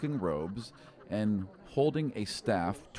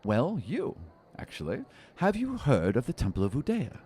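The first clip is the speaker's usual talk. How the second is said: higher, playful halfling voice; a sly little seeker teasing his find; 4 semitones higher than usual. Acted. Halfling answers the question.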